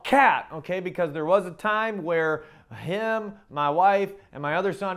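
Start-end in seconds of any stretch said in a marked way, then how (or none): 0.0-0.8 retold yell. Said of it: "he'd yell".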